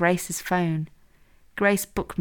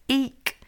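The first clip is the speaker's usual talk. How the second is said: small high-pitched eek; excited eek; 8 semitones higher than usual. A narrator's reading. Grace messaging Amelia she's going to do it, excited squeak. Nervous excitement before doing it.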